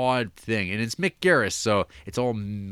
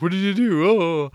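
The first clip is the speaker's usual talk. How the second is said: high, loud mock outcry; hammed-up, high-pitched retold reaction; imitated TV character; 9 semitones higher, 7 dB louder than usual. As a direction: act out an over-the-top exclamation. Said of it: "he's like".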